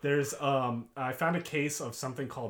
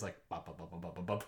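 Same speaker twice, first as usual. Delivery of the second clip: fast bop sounds; 8 semitones lower, 11 dB quieter, faster than usual. Shown as a demonstration. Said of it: "like, faster".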